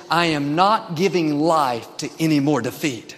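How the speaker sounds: firm, resolute declaration; digging heels in. Acted. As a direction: declare it as a stubborn refusal of defeat. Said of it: "dig your heels in and say".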